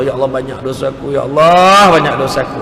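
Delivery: low lament swelling on the second Allah; imitated weeping plea. Penitent cries to God over sins, mock-tearful pleading. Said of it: "kita menangis kerana memikir takut mati".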